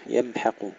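يمحق with a thin ح and a full heavy ق; light ha, heavy qaf. Shown as a demonstration. Teacher isolating يمحق for thin ح and heavy ق. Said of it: "ترقيق الحاء تفخيم القاف".

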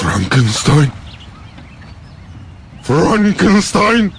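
stunned repeat. Acted. Creature hears his maker's name from the boy, stunned and slow. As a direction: let the name sink in, slowly.

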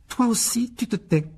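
high, loud order to hush; cross mother's sharp rebuke; angry scolding. A narrator's reading. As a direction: shut him up at once. Mother silencing her other son.

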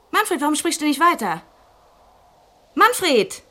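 from anxious question to panicked shout; rising panic. Acted. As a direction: call into the dead phone in growing fear. Line goes dead, she panics.

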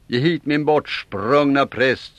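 högt och långsamt, strängt krav; kräv tillbaka prästen strängt; strängt rop. Acted. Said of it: "sa Orm strängt". (strängt, högljutt rop)

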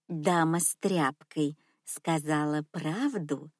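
low, soft, slow grandma voice; soft old lady. Acted. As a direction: ask sweetly, like a rich grandma. Old lady asks, in her voice.

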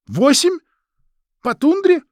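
high, loud incredulous questions; dismayed disbelief. Acted. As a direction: ask in shocked disbelief. Maria dismayed at eight days' walk.

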